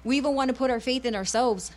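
earnest bilingual preaching, rhythmic and insistent; fervent radio sermon delivery. Acted. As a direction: preach it to the listeners with conviction.

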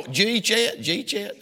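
"G-chat" run together as one quick word; Georgia dialect word. Shown as a demonstration. Preacher shows congregation Georgia talk, Georgia dialect word. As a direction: slur "G-chat" into two syllables, as a question. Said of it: "That's a word".

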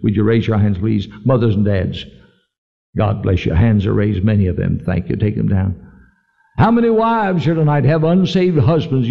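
low, measured appeal to the congregation; altar-call invitation. Real, not acted. Preacher asks worried families to raise their hands, measured altar call.

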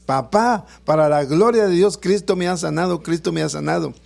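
half-shouted testimony that settles down; mild retold shout. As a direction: imitate a healed child calling to father, restrained. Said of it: "a gritarle a su papá".

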